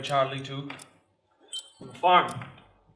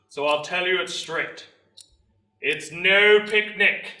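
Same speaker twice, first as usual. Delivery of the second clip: measured, emphatic recruiting speech; blunt military orator; sergeant major, straight-talking; 7 dB louder than usual. Acted. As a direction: lay it out straight for the crowd. Sergeant major addresses the crowd.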